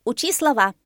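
high, loud parrot command; shouted order. A narrator's reading. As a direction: snap out the order. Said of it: "крикнул ему попугай". (громкий приказной окрик)

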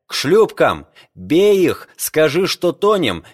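high, loud alarmed orders; urgent shouting. Acted. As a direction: raise the alarm. Narrator rouses Jose in alarm.

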